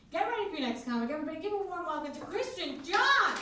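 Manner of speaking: rallying announcer delivery; hyped-up introduction. Shown as a demonstration. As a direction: punch up the intro, ending big. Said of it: "I'm gonna say it like that instead".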